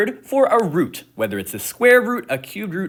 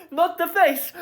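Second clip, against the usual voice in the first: high, crying mock terror; dramatic crying plea; 12 semitones higher than usual. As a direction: sob the plea, hammed up. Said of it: "I'm being a little bit dramatic".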